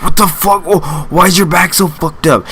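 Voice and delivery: high, put-on voice of a baffled doctor; imagined chiropractor reacting in shock; mock shocked chiropractor. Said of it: "The chiropractor's gonna be like".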